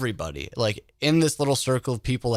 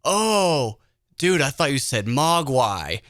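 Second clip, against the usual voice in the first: surprised; 3 semitones higher, slower than usual. Retold or imitated. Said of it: "And he goes".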